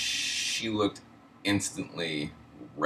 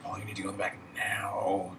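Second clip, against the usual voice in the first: stern order; 3 semitones higher, 4 dB quieter than usual. Retold or imitated. Manager orders him out, retold.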